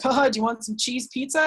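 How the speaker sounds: lightly mocking offer with a fake haha; joking jab. Friend needling a vegan over pizza, joking jab. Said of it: "jokes, like, sometimes lighthearted".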